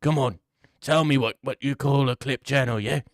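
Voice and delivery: lightly put-on British accent; British Left Lane. Left Lane asking a girl for a channel name, mock British. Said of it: "Left Lane type of person".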